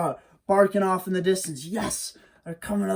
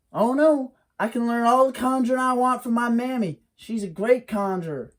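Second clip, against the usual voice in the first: put-on much higher, louder and fast boy voice; a proud boy bragging about his mammy; Wiley bragging to the hairy man, high and quick; boastful young Wiley; 8 semitones higher, 5 dB louder than usual. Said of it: "Wiley refuses".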